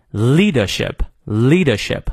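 "leadership" slowly, no R in "leader"; British non-rhotic R. Shown as a demonstration. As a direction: drop the R in "leadership", British style. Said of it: "元音后的R不念". (英式"leadership"，R不发音)

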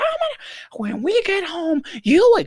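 very high, strained mock scolding; imitated screaming mom. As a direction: threaten a child like a furious mom. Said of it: "she would scream".

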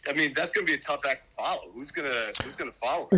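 echoey speakerphone sound. Real, not acted. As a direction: voice through a phone speaker. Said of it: "we're on an echo on your phone".

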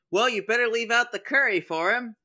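put-on joking Santa line in a mild Indian accent; a hint of an Indian accent. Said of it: "an Indian Santa Claus".

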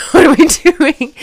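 high, drawn-out retold question; anxious question. Stranded traveller asks the others the plan, anxious. Retelling her own uncertainty.

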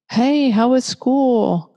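high, slow, bright-eyed parent greeting; singsong parent asking about school; cheery parent. Acted. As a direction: ask like an eager parent. Parent greets child after school.

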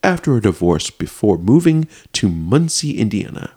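melodramatic news narration; theatrical article read-out; dramatic reading. Acted. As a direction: lean on key words, pausing between phrases. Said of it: "I wanna get dramatic with it".

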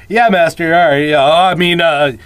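lightly voiced groveling servant; mock-servile yes master; servile Igor. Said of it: "he's like".

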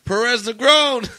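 loud, drawn-out name call; shouted name. Retold or imitated. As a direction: bark the surname across the base. Sergeant calling his name.

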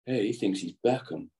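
poorly imitated American accent. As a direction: attempt an unconvincing American accent. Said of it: "is that your American accent?".

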